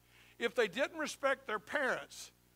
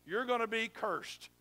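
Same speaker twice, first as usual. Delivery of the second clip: raised, higher warning voice; stern Levite warning; 4 semitones higher, 4 dB louder than usual. Acted. Levite warning the people about idols, stern raised voice. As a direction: lay down the law to the people. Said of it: "And he's gonna say to you".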